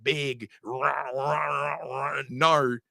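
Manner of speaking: rumbling motorcycle take on Australian speech; mock Australian accent. Man teasing Australians about how they talk, mock Australian accent. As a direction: parody Australian as run-together growly "rah rah". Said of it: "you sound like a bunch of motorcycles".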